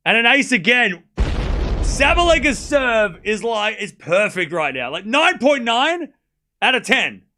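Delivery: slow, loud and high with awe; excited. Real, not acted. Marvelling to viewers at the serve, slow and loud. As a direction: savour each word of the praise. Raving about perfect serve.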